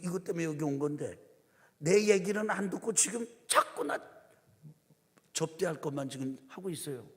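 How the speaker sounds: a lightly voiced Jesus wishing Martha would listen; Jesus sighing inwardly. Jesus' inner thoughts voiced.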